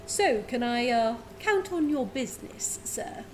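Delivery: lightly voiced smooth merchant; a hint of a courteous businessman; genasi merchant voice. Water genasi courts the dwarf's business, lightly voiced. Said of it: "let me get his voice".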